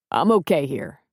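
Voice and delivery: a hint of a gruff cook; Preacher answering.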